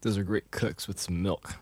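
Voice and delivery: quiet, chewing while talking; mouth full. Real, not acted. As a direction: mumble through a mouthful. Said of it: "And I'm eating".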